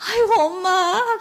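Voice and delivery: high, slow wail for mother; crying out. Acted. Daughter cries out in disgust.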